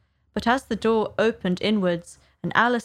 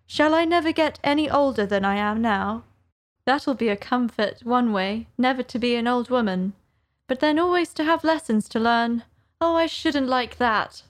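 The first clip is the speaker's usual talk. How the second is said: put-on a slightly raised, musing girl's voice; higher-pitched wondering to herself; Alice pondering; 3 semitones higher than usual. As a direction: talk it over with yourself as young Alice.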